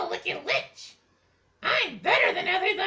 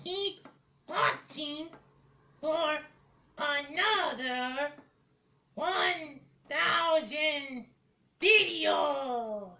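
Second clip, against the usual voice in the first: slow low creature voice; dragon voice; 5 semitones lower, 3 dB quieter, much slower than usual. Acted. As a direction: drawl it out like a dragon. Puppet witch voice, slow.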